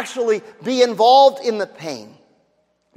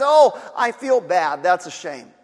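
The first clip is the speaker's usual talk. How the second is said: mock pity; 4 semitones lower than usual. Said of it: "Pity just says".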